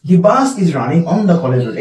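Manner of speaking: slow dictation. Shown as a demonstration. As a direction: read the road example word by word. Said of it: "এই দেখো রোড".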